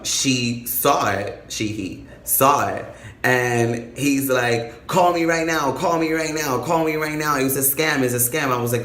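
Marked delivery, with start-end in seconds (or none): 4.9-8.5 higher, insistent repeated plea; retold urgent warning. Best friend phoning to warn of scam, urgent. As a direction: sound the alarm, repeating it urgently.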